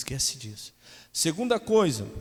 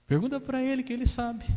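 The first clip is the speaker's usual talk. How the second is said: much higher, sneering demon voice; mocking demon; 13 semitones higher than usual. Demon mocking pastor about husband, much higher. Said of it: "O demônio falou assim".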